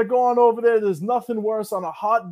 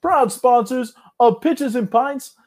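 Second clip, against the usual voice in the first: mock infomercial voice; official ad read. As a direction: read it like a paid spot, a bit hammed. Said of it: "here is the read".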